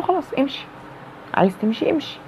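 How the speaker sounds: coolly dismissive, brushing him off; cold dismissal. Retold or imitated. To the partner who threatens to leave, cold and dismissive. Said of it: "عاملته ببرود".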